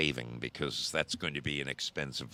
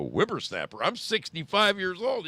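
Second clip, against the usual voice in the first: indignant disbelief; 12 semitones higher, 4 dB louder than usual. Retold or imitated. Indignant retort to old biker.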